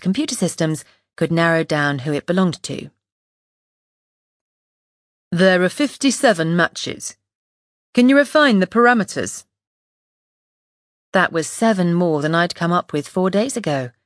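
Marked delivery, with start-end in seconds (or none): 5.3-9.5 put-on northern accent. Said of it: "a man with a thick northern accent".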